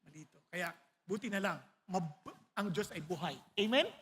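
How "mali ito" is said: near-tearful prayer. Retold or imitated. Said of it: "Naiiyak ko sa kanya kaagad".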